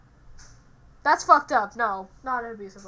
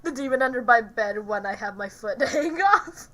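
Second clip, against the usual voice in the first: laughing while talking; 3 dB louder than usual. Real, not acted. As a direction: talk through giggles.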